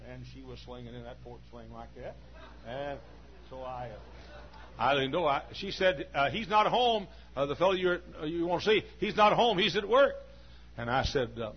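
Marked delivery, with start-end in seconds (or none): 6.3-10.1 put-on high, louder old woman's voice; a lightly voiced old lady talking through the doorway. Old lady tells the preacher her son is out, in a high voice.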